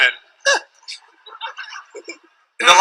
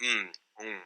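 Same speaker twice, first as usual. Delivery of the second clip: stoned mumbling; 8 semitones lower, 11 dB quieter, slower than usual. Retold or imitated. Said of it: "They go".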